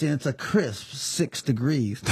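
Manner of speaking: imitating the pilot. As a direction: deliver it like a calm cockpit announcement. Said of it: "he says".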